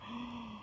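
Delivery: small suspenseful intake of breath; soft gasp. Acted. Narrator builds suspense for young listeners, soft gasp. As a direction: gasp softly in anticipation. Suspense before the bears return.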